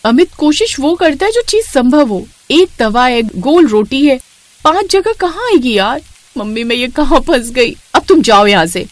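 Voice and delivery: wife complaining about the small pan; exasperated bride. Acted. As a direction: complain to your husband. Bride argues.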